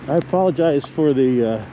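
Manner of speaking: sniffly, heavy breathing. Real, not acted. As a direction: talk through sniffles and panting. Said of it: "sniffles and the heavy breathing".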